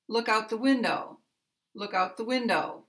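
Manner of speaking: "Look" and "window" stressed, "out the" unstressed; stress on the verb. Shown as a demonstration. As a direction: keep "out the" light, stress "Look" and first syllable of "window". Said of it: "the stress is on the one-word verb".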